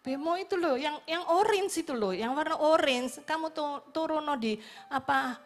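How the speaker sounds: insistent friend. Retold or imitated. Friend telling Grace which bemo to take, insistent and loud. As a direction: push the directions on her, firmly.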